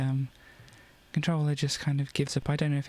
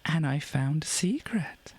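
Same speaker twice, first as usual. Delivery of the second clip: whispering; 2 semitones higher than usual. Real, not acted. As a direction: whisper it like a secret. Whispered secret discovery.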